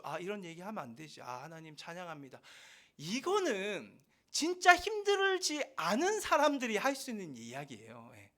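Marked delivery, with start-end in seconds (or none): 0.0-2.4 hushed, sweet correction into praise; soft mock-pious praise. A shallow believer catching himself before God, softly pious. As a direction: pull the complaint back and whisper out a polite praise.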